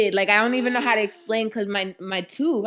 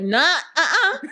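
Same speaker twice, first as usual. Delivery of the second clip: firm no; 8 semitones higher, 5 dB louder than usual. Retold or imitated. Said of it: "I'll be like".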